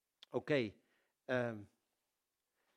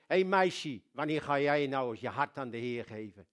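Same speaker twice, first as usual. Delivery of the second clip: sudden call out; 7 dB louder than usual. Retold or imitated. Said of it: "draait hij zich om en hij zegt".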